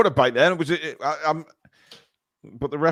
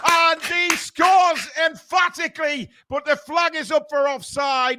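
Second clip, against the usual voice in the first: excited; 14 semitones higher than usual. Real, not acted. Calling goal then offside.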